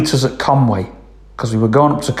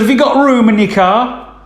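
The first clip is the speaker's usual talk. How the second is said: farmer's wife; 9 semitones higher than usual. Retold or imitated. Farmer's wife voiced high.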